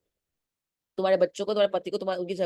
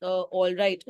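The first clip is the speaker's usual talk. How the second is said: a hint of nervous stammering; hesitant, halting; much slower than usual. The timid aunt falters at the doorway, mildly hesitant. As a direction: stop and start, as if scared. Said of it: "रुक रुक के, अटक अटक के, डर डर के बोला".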